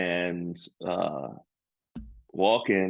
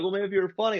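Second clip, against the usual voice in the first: retold snide heckle; 12 semitones higher, much faster than usual. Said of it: "They're like".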